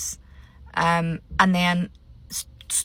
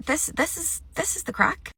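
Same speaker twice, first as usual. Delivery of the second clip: giddy excitement; 9 semitones higher, 4 dB quieter than usual. Real, not acted. Gleeful about the show drama.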